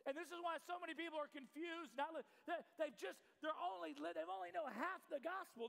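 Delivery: impassioned, projected sermon delivery; preaching. Real, not acted. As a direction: drive the point home to the congregation. Preaches at full force.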